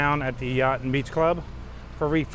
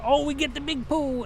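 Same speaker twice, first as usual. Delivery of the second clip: excited guest; 10 semitones higher than usual. Retold or imitated. Imagined guest excited at resort.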